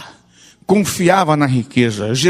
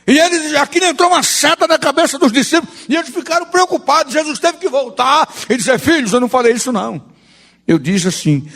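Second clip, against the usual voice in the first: raised, emphatic pulpit retelling; animated preaching; 6 semitones higher than usual. Real, not acted. Preacher explaining to the church what Jesus meant, emphatic. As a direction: drive the point home like a preacher.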